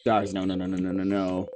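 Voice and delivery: panicked hero begging time to rewind; frantic whisper. Acted. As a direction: plead under your breath. Siffrin panics while looping back.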